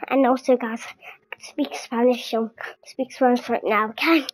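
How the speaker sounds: whispered aside to the viewers. Real, not acted. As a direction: lean in and whisper it unvoiced.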